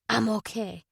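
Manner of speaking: weak, rough-voiced reassurance; hoarse. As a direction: rasp it out, worn down. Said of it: "she said hoarsely".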